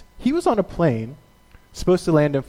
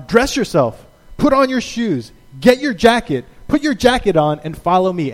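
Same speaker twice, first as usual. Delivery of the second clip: raised, step-by-step commands; bossy angel; 4 semitones higher, 4 dB louder than usual. Retold or imitated. Angel ordering a dazed Peter, brisk commands. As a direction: bark each order like a drill.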